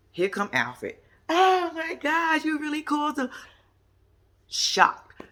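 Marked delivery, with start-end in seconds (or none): 1.3-3.3 hammed-up shock that he really called; mock shock. Brother shocked Alfred was called. 4.5-5.2 breathy whispered comment; whispered aside. Real, not acted.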